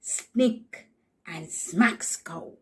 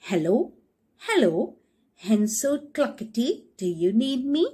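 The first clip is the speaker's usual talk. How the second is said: stick asking; 4 semitones higher, 3 dB louder than usual. Acted. Stick greeting hen.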